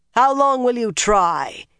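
mildly shouted challenge; shouting at the night. A narrator's reading. Rand crying out at the night, slow mild shout. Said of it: "he shouted at the night".

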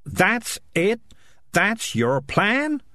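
high, drawn-out disbelief; incredulous. Acted. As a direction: question it as if it cannot be all. Morris scorns the simple plan.

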